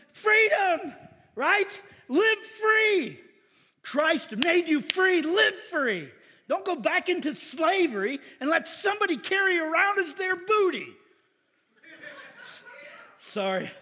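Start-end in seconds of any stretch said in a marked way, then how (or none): 0.1-11.0 loud, higher, shouting the good news; fiery preaching. Real, not acted. Preacher rousing the congregation about freedom, loud and high. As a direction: preach it out to the back row.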